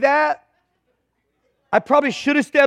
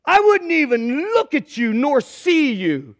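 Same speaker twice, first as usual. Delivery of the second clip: harsh; 3 semitones higher than usual. Acted. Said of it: "people say I'm harsh".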